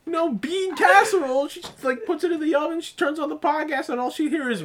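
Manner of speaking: high-pitched talking through laughter; real helpless giggling delivery; cracking up. Real, not acted. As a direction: struggle to tell it while laughing. Cracking up telling grandma scenario.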